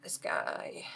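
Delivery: whispering. Real, not acted. GM counting tokens quietly.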